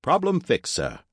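very high, loud robot voice; high-pitched robot butler; robot servant. Acted. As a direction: report crisply as a machine, stutter gone. Robot reports its stutter fixed.

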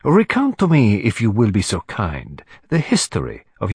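put-on courteous accented detective's request; Hercule Poirot. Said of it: "said Poirot".

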